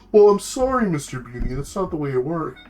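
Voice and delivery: high mock apology, dropping away; snarky turtle. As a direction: smugly turn the caller down as a cartoon turtle. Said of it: "He has this, like, really snarky voice".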